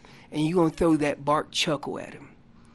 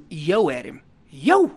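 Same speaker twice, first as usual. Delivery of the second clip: demo yo call. Shown as a demonstration. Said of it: "I tell people".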